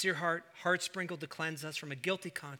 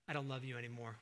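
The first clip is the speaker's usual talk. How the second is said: hurtful quote; 4 semitones lower, 8 dB quieter, faster than usual. Acted. Child rejecting a parent.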